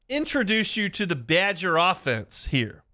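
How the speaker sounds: light Midwestern Wisconsin accent; mild Wisconsin accent impression. Shown as a demonstration. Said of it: "How's that Wisconsin accent?".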